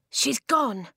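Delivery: high, shocked gasp. A narrator's reading. Jay finding Rook's cage empty, shocked gasp. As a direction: gasp out the bad news. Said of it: "he gasped".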